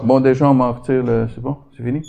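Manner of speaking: ordinary talk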